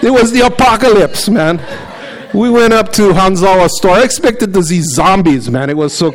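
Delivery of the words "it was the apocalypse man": hammed-up doomsday telling, slowed on Noah's flood; dramatic exaggerated version. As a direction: overdo the drama like it was the end of the world. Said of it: "I gave Heather the Portuguese version".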